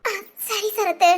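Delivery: slow, teary agreement; grieving woman answers the friend consoling her, teary; tearful. Acted. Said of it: "வேணி, அழாத".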